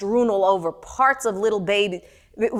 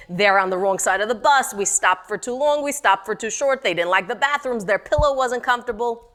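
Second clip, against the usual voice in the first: lightly voiced grumbling old ladies; mock complaining. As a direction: whine it as a petty list of gripes. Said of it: "is complain. Complain".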